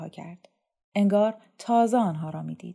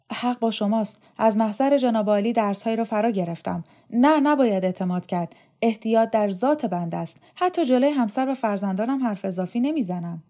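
higher, emphatic, eager agreement; deferential official; 3 semitones higher, 5 dB louder than usual. Acted. Dormitory chief assures the inspector of his caution, deferential. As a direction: agree eagerly and formally with a superior.

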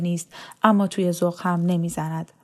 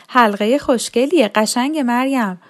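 higher, singled-out woman's voice in narration; admiring woman guest; 4 semitones higher, 5 dB louder than usual. A narrator's reading. A wedding guest to the bride about her ring, admiring.

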